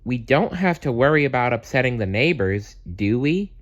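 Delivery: wondering aloud. Acted. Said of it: "wondered Messy Bear".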